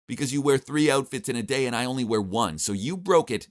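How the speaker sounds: acted nagging comeback, short of a shriek; insistent blaming. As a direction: lay the blame on the listener. Wife argues back on phone.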